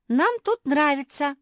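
very high, loud frightened cry. A narrator's reading. Naretta frightened of being sent away, high cry. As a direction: blurt it out in fright. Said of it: "испугалась Наретта".

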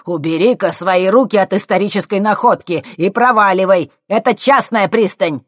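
high, loud furious yell; angry shout. A narrator's reading. Professor yelling at the thief, furious shout. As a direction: bark it at him.

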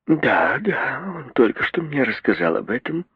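mother repeating dully, on the edge of crying; dull tearful repeating. A narrator's reading. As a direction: repeat it numbly through tears. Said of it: "повторяла миссис Броуди тупо".

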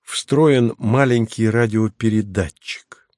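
slow, patient whisper; hushed and patient, word by word. Acted. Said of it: "сказал он терпеливо".

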